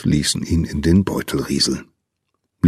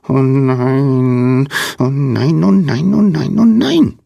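high squeak climbing higher and louder; squeaky panic; 7 semitones higher, 3 dB louder, slower than usual. A narrator's reading. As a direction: squeal it out, rising with each repeat. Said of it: "piepste jemand". (piepsige Stimme, immer höher und aufgeregter)

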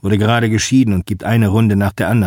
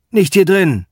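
high pleading call across the bar, louder; 10 semitones higher, 3 dB louder than usual. Acted. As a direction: shout it over the noise, begging. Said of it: "ruft Bank wieder".

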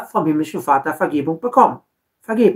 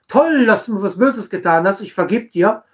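mock overjoyed. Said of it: "freudestrahlend den Leuten entgegengehen".

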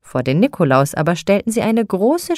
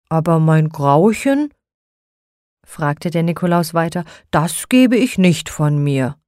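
Nikolaus voice. A narrator's reading.

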